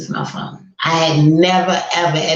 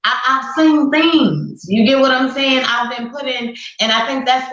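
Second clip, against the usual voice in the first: teary, voice pitched high and wavering; choked up, fighting back tears; after crying; 7 semitones higher than usual. Real, not acted. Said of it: "I'm getting all teary-eyed".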